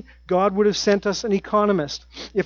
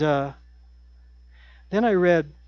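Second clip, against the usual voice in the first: normal talking voice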